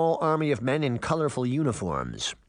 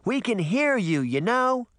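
indignant; 9 semitones higher than usual. A narrator's reading. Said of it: "Daphne shouted".

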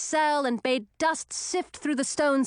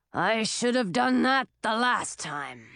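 big dragon voice; slower than usual. A narrator's reading. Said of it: "the big dragon said".

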